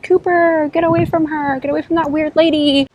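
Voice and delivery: a hint of a shouting dog owner; mock yell. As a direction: scold the dog away from the weird lady. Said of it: "started screaming at him".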